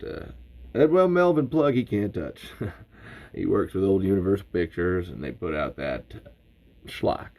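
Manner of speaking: lightly voiced Southern show host; Bert Gummer as host. Bert welcomes listeners to Talking Tremors, light Southern pride. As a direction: introduce yourself proudly as the expert. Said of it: "like, Southern for Bert".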